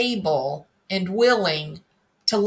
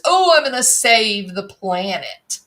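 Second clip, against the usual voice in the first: pompous. Retold or imitated. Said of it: "in this very pompous way".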